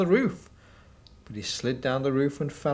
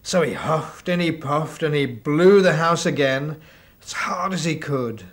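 louder, effortful; 2 semitones higher, 6 dB louder than usual. Acted. Wolf blows again.

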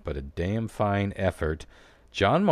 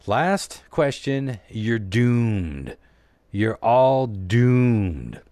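slow ominous raspy drawl; 3 semitones higher, 5 dB louder, much slower than usual. Acted. Ominous quiz announcement.

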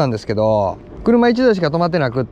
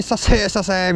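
keen shop clerk; 5 semitones higher than usual. Retold or imitated. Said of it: "いきなり".

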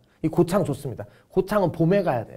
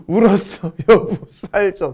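higher, drawn-out tearful plea; mock crying plea; 4 semitones higher, slower than usual. Teacher repeating the crying husband's plea, mild mock crying. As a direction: lightly act out a whimpering plea. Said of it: "그랬더니 화내".

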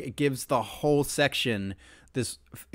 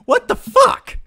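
loud, high, exasperated rant; half-joking outrage; mock mad; 10 semitones higher, 9 dB louder than usual. Real, not acted. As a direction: play up being furious at the song. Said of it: "I'm fucking mad right now".

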